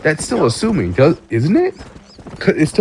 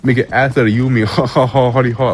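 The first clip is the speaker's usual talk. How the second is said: smug mock quote; faster than usual. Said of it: "they'll be like".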